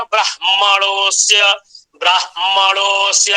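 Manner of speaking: ब्राह्मणोस्य chanted Vedic style from the chest; Vedic recitation. Shown as a demonstration. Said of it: "आप वैदिकों का उच्चारण आपने सुना होगा".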